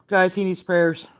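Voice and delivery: hushed whisper to the viewers; whispered plea for prayers. Real, not acted. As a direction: breathe it like a secret plea.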